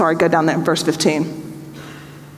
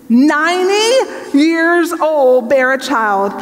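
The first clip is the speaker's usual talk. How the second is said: incredulous disbelief; 4 semitones higher, slower than usual. Acted. Abraham doubting a child at his age.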